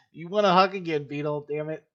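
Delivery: loud, high, frustrated call at Beetle; half-joking shout of frustration; exasperated yell. Real, not acted. Coach yelling at Beetle on the film, loud and exasperated.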